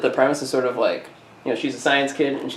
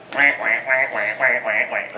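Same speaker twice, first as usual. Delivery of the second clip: with a quick kiss. Pretend. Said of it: "you can make any noise when you kiss".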